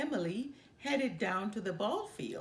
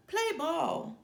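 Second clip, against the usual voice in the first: higher, louder umpire call; 8 semitones higher, 5 dB louder than usual. A narrator's reading. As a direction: announce it across the field. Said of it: "called the ump".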